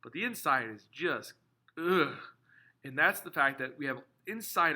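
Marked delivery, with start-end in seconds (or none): 1.8-2.2 disgusted groan. Acted. Disgust at the metal's inside.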